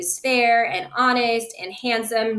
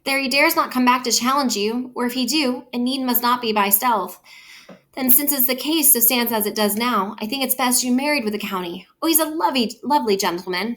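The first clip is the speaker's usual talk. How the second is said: gushing nurse; 2 semitones higher than usual. Acted. Nurse urges marrying Paris.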